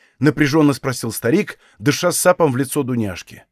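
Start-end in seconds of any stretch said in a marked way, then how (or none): none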